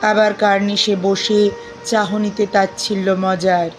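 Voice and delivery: measured, expressive verse reading with deliberate pauses; poem recitation. Acted. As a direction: recite the poem phrase by phrase, lingering on words.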